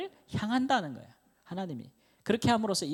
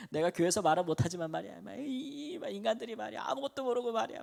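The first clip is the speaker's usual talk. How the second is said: mock Gyeongsang rant jumping higher; Gyeongsang dialect griping; 5 semitones higher than usual. Young pastor venting about people who know nothing, mock Gyeongsang grumbling. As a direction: imitate a fed-up Gyeongsang man letting off steam. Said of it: "막 경상도 사투리로".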